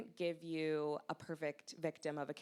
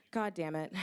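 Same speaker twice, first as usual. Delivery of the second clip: muttered oath; 6 dB louder than usual. Acted. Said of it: "Bigger sighed, swore".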